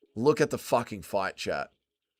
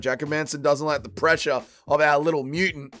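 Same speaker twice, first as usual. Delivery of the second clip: put-on Dustin Poirier accent; 5 semitones higher, 6 dB louder than usual. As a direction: cheer the fighter on in a Poirier-style accent. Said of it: "Dustin Poirier accent".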